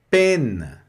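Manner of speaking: Peine with an e sound, final e barely heard; Peine, teacher model; French word Peine. Shown as a demonstration. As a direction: say Peine slowly. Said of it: "som de E".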